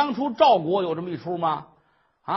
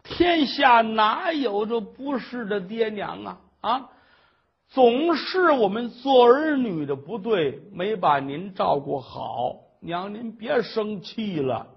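tearful; slower than usual. Acted. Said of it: "珊瑚眼泪哗哗的".

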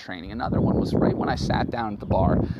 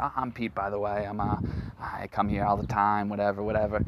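lightly imitated Boston accent; a touch of Boston in a retold voice. Barfly introducing himself to a stranger, light Boston accent. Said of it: "This is Boston accent".

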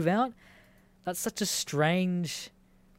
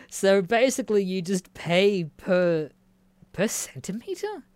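incredulous question; 3 semitones higher, 3 dB louder than usual. Real, not acted. Baffled by odd pricing.

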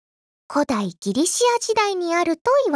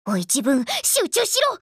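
scolding herself. Acted.

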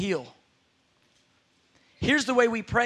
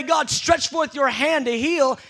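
passive prayer; 4 semitones higher, 4 dB louder, slower than usual. Shown as a demonstration. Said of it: "we just move into passive mode".

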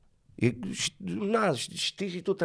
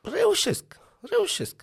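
mock high squeak; slower than usual. Jokey high answer.

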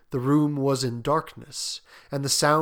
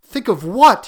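loud, baffled question, pitched up; raised, puzzled voice; 8 semitones higher, 12 dB louder than usual. A narrator's reading. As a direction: ask it in startled confusion. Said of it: "he questioned".

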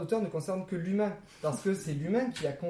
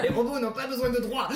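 laughing; 9 semitones higher, 8 dB louder than usual. Real, not acted. Laughing mock declaration.

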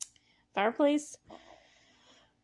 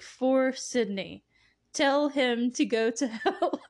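lightly voiced elderly man, amused; slow old man voice; 3 semitones higher, slower than usual. Old Glenn dictating a cheeky note to Sydney, slow and chuckling. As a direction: drawl out the note slowly, breaking into a laugh.

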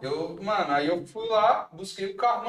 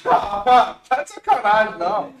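panicking gamer; 7 semitones higher, 10 dB louder than usual. Pretend. Loud panicked outburst, being followed.

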